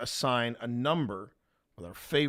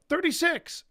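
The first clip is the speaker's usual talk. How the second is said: high, loud shout of a number; 7 dB louder than usual. Retold or imitated. Cellmate shouting a joke number to the block, high loud yell. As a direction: yell it across the cell block. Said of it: "suddenly shouts out".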